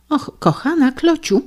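high mocking imitation of the wife; a husband's teasing high-pitched mimicry; mocking falsetto. Husband mocks wife's tone.

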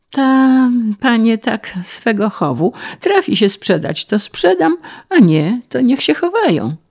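high, singsong peasant voice; easygoing peasant. A narrator's reading. Peasant explaining his horses to the official, artless. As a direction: explain it simply, pitch hopping up.

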